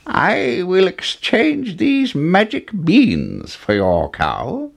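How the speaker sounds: put-on slow, high storybook old man; old man with beans. A narrator's reading. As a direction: draw out a mysterious offer. Old man offering magic beans.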